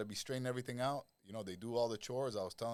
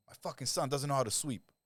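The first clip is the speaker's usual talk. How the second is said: retold angry rant, a bit higher and louder; angry client; 5 semitones higher, 4 dB louder than usual. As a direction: huff it out like a fed-up father. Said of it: "he's pissed off".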